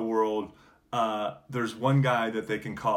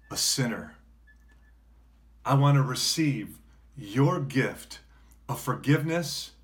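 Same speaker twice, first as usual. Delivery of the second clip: prayer. Acted. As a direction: lead the prayer phrase by phrase with pauses. Leads the congregation in prayer.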